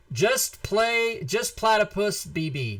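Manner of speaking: drawn out, slow, announcer-style reveal; winner announcement. Shown as a demonstration. Host announcing the giveaway winner, slow drawn-out reveal. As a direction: savor the winner's name slowly. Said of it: "The winner is".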